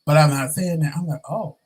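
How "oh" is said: mild, softer put-on surprise; feigned surprise. Hiding his interest from a gay coworker, half-hearted surprise. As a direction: act shocked, but only halfway. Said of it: "I'm sounding, like, shocked and surprised".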